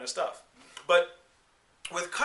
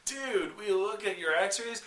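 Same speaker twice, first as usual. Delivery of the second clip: sloppy dude doctor; 3 semitones higher, 4 dB louder, slower than usual. Retold or imitated. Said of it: "was like".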